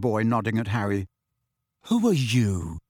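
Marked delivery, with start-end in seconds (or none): 1.8-2.8 rude. A narrator's reading. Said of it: "said Ron rather rudely".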